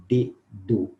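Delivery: dedo with a hard dental d; plain d in dedo. Shown as a demonstration. Teacher showing how dedo is said. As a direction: say dedo with the tongue on the teeth. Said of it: "Olha como nós falamos dedo".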